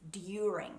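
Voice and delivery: "during" as d-yooring; "during" without any J sound; English pronunciation. Shown as a demonstration. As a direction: clean D then Y in "during". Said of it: "the English pronunciation is".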